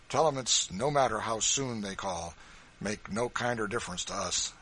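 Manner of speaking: big farmer squaring up to any pursuers; hearty Kentucky man, loud and fearless; defiant backwoods farmer. Acted. John's voice continues.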